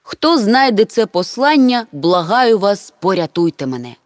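reading aloud. A narrator's reading. Mama reads the rescue letter to everyone, loudly. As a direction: read out a desperate message. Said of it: "й голосно прочитала".

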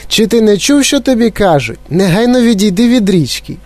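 high, insistent scolding mother; mother calling out. A narrator's reading. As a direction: order your child away, pitched high. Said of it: "покликала пані Глуп". (мати наполегливо гукає сина)

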